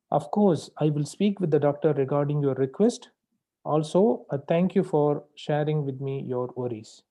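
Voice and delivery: measured, polite and unhurried; calm polite. Shown as a demonstration. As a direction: say it calmly with clear pauses. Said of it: "This is how you need to speak".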